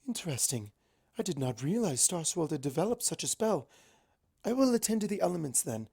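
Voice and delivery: a calm, commanding princess taking charge; lightly voiced stately princess; regal Celestia. Celestia speaks at length.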